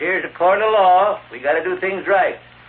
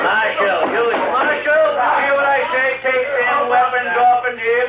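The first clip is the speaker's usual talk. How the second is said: raised order; 6 semitones higher than usual. Acted. Judge orders marshal, ignored.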